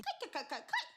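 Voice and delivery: ordinary talk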